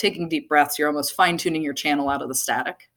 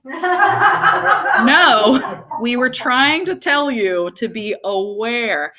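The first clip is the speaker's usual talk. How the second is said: spirit voice; 6 semitones higher, 4 dB louder, much slower than usual. Retold or imitated.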